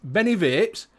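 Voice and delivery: broad, slowed Yorkshire accent played up for the show. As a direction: talk like a Barnsley lad greeting the viewers. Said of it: "in proper Yorkshire".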